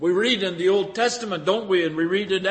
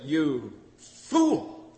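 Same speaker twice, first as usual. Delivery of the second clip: voice of God judging; 6 semitones higher, 6 dB louder, much slower than usual. Acted. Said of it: "God said".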